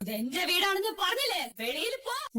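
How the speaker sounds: mock-spooky threat; pretend ghost. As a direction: order them out like a play-acted spirit. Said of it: "ഞാൻ അവരെ പേടിപ്പിച്ചിരിക്കും".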